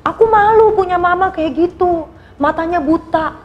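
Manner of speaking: put-on sulky child Rita. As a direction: pout it out like an ashamed little girl. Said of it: "kata si Rita".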